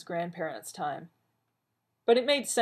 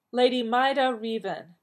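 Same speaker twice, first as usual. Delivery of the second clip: loud, formal call of a name; clear, carrying voice; 6 semitones higher, 5 dB louder than usual. A narrator's reading. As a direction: summon her before the council. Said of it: "said in a clear, carrying voice".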